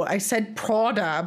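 "Prada" in a put-on weird accent. Retelling the correction to Derek, "Prada" oddly accented. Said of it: "but with a weird accent".

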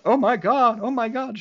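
a touch of put-on horror; mock shock. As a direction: play scandalized onlookers, lightly.

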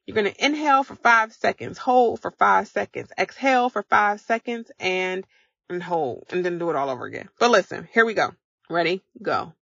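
brisk, counting instructions for a breath drill; breathing coach cue. Acted. Coach leading listeners through box breathing, brisk.

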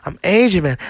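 mock soul singer, rising complaint; lightly voiced aging rock star; soul singer lament. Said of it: "he's like".

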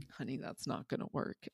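softly murmured, knowing aside; quiet aside. Retold or imitated. Mother to four-year-old copying her scolding, quiet aside. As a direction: say it under your breath, mostly without voice.

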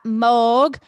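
spelled out in a put-on Cockney accent; a touch of Cockney, slow and loud. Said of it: "that's a Cockney accent".

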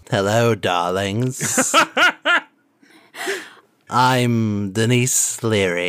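slow, campy diva greeting; a hint of a grand diva; campy drag queen. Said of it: "Alex, will you be Denise Leary?".

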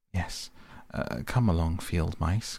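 a touch of eager welcome. Acted. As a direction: hurry them in, lightly eager. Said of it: "cried the Mole eagerly".

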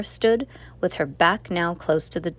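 plain reading voice

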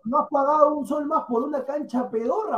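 half laughing, half shouting; mocking laugh-shout; laughing jab. Real, not acted. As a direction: needle him about the cheap pitch. Argument, laugh shout heard.

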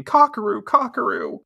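high-pitched mock worried calling; acted distress. Luna running away for help, acted distress. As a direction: repeat the name in dramatized worry.

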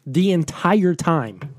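slow, drawn-out mock Australian; Australian accent. Shown as a demonstration. Host promising the whole episode, slow Australian accent. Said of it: "all in my Australian accent".

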